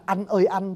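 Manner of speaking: "anh ơi anh" sounding like "ăn ơi ăn"; as Northerners hear it. Shown as a demonstration. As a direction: turn "anh" into "ăn", as in eating. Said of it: "người Bắc nghe họ cảm giác là".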